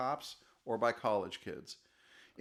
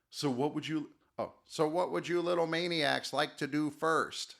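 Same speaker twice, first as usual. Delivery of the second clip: lightly voiced robot, near the speaker's own; a hint of an android speaking. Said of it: "I had to come up with a robotic voice".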